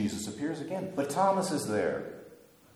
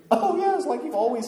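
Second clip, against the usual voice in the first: sarcastic laugh; 7 dB louder than usual. Real, not acted. Sarcastic aside after angel quote.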